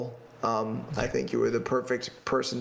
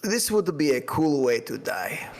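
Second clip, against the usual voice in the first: a light, self-consciously bad Russian accent; 2 semitones higher than usual. Podcast host reads his favourite line, in a faint Russian accent. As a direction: quote the film line in a mild Russian accent. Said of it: "apologize for my terrible Russian accent".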